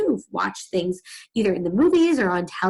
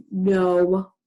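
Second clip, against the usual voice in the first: disbelieving thought. Acted. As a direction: let the doubt stretch the words. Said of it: "he would just be saying it like".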